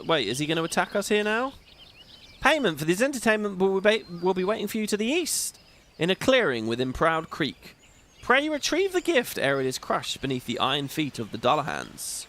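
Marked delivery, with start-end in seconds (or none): 2.4-12.2 a grand, courtly spirit who is delighted by the show; theatrical NPC voice. Acted. Streamer voicing the disembodied NPC to viewers, lightly grand and courtly. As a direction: play it as a pompous, pleased disembodied voice. Reads NPC dialogue aloud.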